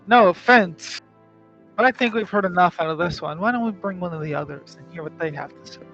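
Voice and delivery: brusque, fast hobgoblin voice; gravelly sly hobgoblin. Acted. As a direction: brush them off quickly. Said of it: "the hobgoblin speaks up and goes".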